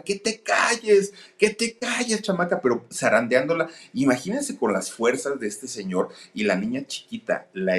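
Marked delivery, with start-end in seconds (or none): 0.0-2.6 high-pitched mock yell, slowed down; retold angry yell. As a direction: yell it at the child, raised high and drawn out. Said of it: "le empieza a gritar". (grito agudo y lento imitando al padre furioso)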